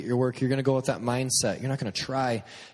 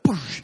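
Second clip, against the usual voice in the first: mock "boosh" of a needle; louder, higher burst for a jab; imitated jab noise; 4 semitones higher, 4 dB louder than usual. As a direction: punch out a quick impact noise.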